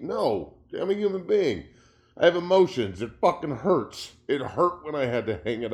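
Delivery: raw, hurt outburst rising in pitch; emotional. Real, not acted. Ex-player on his career ending, emotional. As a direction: let real hurt push the voice up. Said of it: "I sound emotional 'cause I am".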